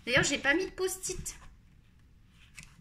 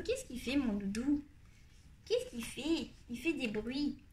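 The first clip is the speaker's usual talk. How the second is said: tendre avec son chien; 8 dB quieter than usual. Real, not acted. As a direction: talk softly to a little dog. Parle à son petit chien. (tendrement, tout bas, à son chien)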